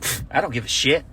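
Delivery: soft, shrugging scoff; dismissive. Retold or imitated. Comic brushing off the cop threat, soft scoff. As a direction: brush it off quietly. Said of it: "I was like".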